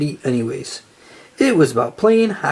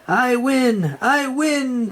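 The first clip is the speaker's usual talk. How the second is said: much higher squealing victory cry; gleeful shriek; 7 semitones higher, much slower than usual. A narrator's reading. Plankton celebrates his team's win, high gleeful shriek. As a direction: shriek it in triumph. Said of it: "Plankton shrieked".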